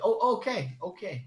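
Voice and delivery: high-pitched mock Asian accent; Asian lady accent. Asian lady finally understanding the firefighter, mock accent. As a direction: squeak out an imitated Asian accent. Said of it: "And then she's like".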